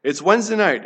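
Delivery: ordinary delivery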